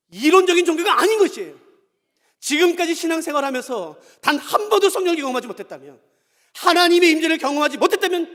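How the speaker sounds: loud, high-pitched sermon delivery; impassioned preacher driving the point home; forceful preaching. Real, not acted. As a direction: proclaim it to the whole congregation.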